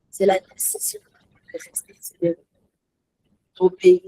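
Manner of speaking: earnest whisper; hushed emphasis. Real, not acted. Preacher urging believers to stay faithful, whispered. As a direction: whisper it to the congregation.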